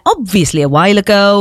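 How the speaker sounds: knowing, pointed delivery; sarcastic dig. Retold or imitated. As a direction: stress the dig in it. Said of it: "I loved that little dig in there".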